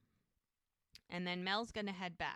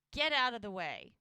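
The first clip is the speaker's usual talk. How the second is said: curt, louder order; not nice; 6 dB louder than usual. Retold or imitated. Doc orders Everett away from Pauline, not nicely. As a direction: push them aside with a mild mock sternness. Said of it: "He's not being nice about it".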